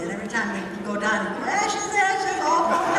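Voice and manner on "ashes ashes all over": put-on high, loud sing-song child chant; two-year-old son. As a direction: imitate a toddler playing Ring Around the Rosie. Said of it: "Our two-year-old son thought they were playing".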